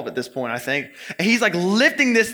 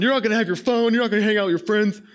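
lightly voiced angry dad lecturing his older son; mock dad yelling; 2 semitones higher, faster than usual. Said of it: "So he starts yelling".

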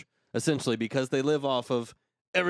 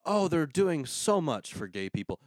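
higher-pitched gushing quote; mock admiration; 5 semitones higher than usual. Host parodying Glee fans, mock admiration. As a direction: gush in mock praise. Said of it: "people view Glee as".

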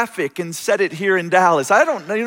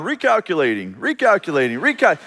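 GPS voice. Retold or imitated. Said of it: "I hear the G P S in the background".

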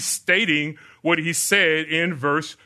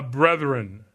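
a touch of affection, a little lower; affectionate; 3 semitones lower, much slower than usual. Acted. Preacher voicing Paul greeting the brethren, mildly affectionate. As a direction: gently address them as brothers. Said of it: "It's an affectionate tone".

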